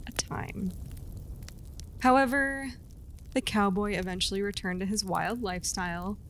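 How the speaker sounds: steady storyteller voice reading a legend; storytelling narration. A narrator's reading. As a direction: tell it like a campfire legend.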